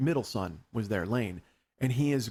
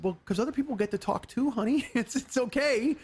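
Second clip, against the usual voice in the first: retold placating; 10 semitones higher than usual. Husband placating wife in retold talk.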